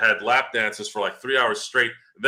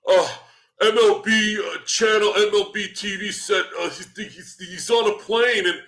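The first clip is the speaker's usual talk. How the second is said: much higher, put-on eager fan voice; mocking fans; 10 semitones higher than usual. Mocking fans who believed the rumour, high mock voice. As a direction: parody a gullible fan citing sources. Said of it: "and they're like".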